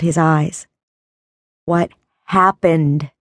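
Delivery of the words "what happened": cold fury. Acted. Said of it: "Dark fury shadowed Gabriel's face".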